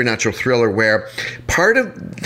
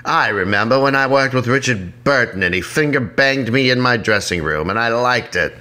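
put-on old movie star voice. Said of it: "That's what I sound like".

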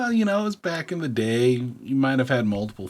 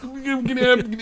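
dazed minister voice; 13 semitones higher, 4 dB louder, faster than usual. Retold or imitated.

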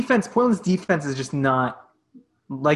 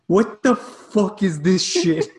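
annoyed friend; 3 semitones higher, slower than usual. Retold or imitated. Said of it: "and he just goes".

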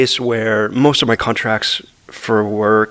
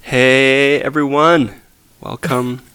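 podcast voice; 3 semitones higher, slower than usual. Real, not acted. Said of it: "like, podcast voice".

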